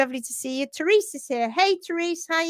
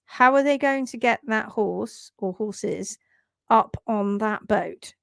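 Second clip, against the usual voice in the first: puzzled wondering; 3 semitones lower, slower than usual. Retold or imitated. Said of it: "I was watching it going".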